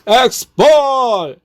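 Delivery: loud, high yell with a long held ending; shouted attack call. Retold or imitated. Narrator trying another call against the demon, shouting. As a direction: bellow it like a weapon's name. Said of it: "하고 외쳤습니다".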